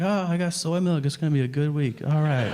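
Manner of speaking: upbeat, pleased with himself; cheerful little self-talk; chirpy happy shopper. Retold or imitated.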